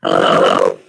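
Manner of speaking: glitchy robotic audio; metallic voice. Real, not acted. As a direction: voice garbled like a broken robot. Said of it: "my voice is robotic".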